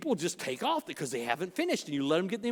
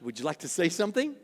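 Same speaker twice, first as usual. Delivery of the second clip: softer, lower, kindly asking; gentle invitation; 4 semitones lower, 3 dB quieter than usual. Shown as a demonstration. Pastor showing the kind way to ask a spouse, gentle and soft. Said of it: "But I mean just like".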